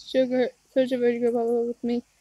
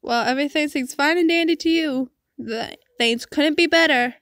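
angry; 3 semitones higher than usual. Acted. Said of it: "it made me feel so angry".

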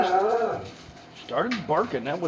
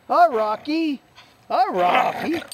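much higher, a bit louder hello to the dog; 9 semitones higher, 4 dB louder, slower than usual. Real, not acted. Owner greeting dog Rocky, high baby talk. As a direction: sing his name up high.

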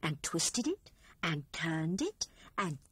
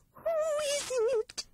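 trembling whisper. A narrator's reading. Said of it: "whispered Squirrel in a trembling voice".

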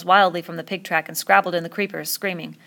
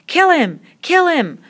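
high, very loud repeated shout; frenzied yell; 11 semitones higher, 9 dB louder, slower than usual. Acted. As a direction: yell wildly with the mob. Frenzied mob yelling.

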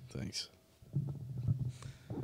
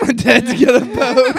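high, loud laughing mimic; mocking imitation; 10 semitones higher, 13 dB louder than usual. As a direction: mimic him in a silly voice. Mocking repeat.

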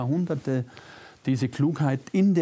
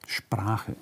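"Sprache" breathed as a soft whisper; 3 semitones lower, 4 dB quieter than usual. Real, not acted. Speaker echoing the key word to the audience, whispered.

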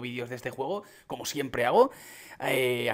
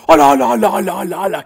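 very loud, high string of exclamations; loud excitement, easing off toward the end; amazed outburst; 5 semitones higher, 15 dB louder than usual. Real, not acted. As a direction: burst out in rapid repeated cries of amazement. Amazed reaction to new items.

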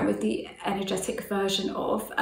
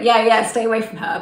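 emphatic agreement; 6 dB louder than usual. Retold or imitated.

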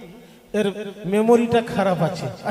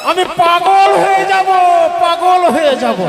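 high, loud mock panic; exasperated yelling; 9 semitones higher, 9 dB louder than usual. Matchmaker begging the fast-talking bride to stop, loud mock panic. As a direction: cry out that she is driving you mad. Matchmaker overwhelmed by rapid talk.

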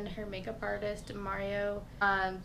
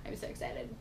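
whisper; 7 dB quieter than usual. Real, not acted. Whispered aside after excitement news.

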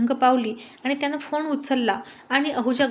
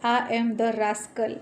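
very slow, rumbling demon-like voice; a villain relishing the name rascal, slow and menacing; demonic laugh; much slower than usual. Acted. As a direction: drag it out like a monster gloating. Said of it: "राक्षसासारखा गडगडीत हसला आणि म्हणाला".

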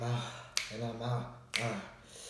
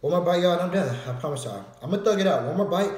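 strained loud push; 7 semitones higher, 9 dB louder, faster than usual. Real, not acted. Forcing himself through heat.

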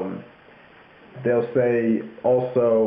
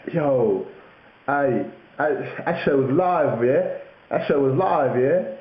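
London slang; 3 semitones higher, slower than usual. Retold or imitated. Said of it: "so they'd be like".

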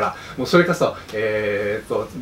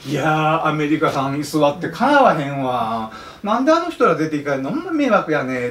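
Kansai complaint; 2 semitones higher than usual. Retold or imitated. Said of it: "関西弁".

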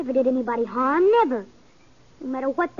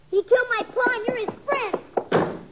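bitter accusation; 9 semitones higher than usual. Acted. Boy turns bitterly on his friend.

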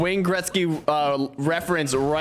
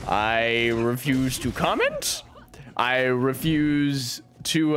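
mock dignified; 3 semitones lower, much slower than usual. Real, not acted. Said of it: "I choose not to comment".

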